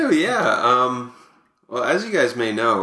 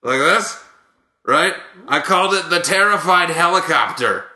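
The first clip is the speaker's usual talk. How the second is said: Buck Martinez. Acted. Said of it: "here to present these is Buck Martinez".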